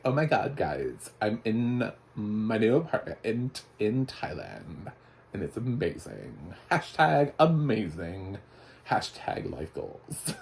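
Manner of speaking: drawn-out, gushing influencer voice; mock influencer. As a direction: imitate an influencer posting to followers. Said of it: "we're introduced to an influencer".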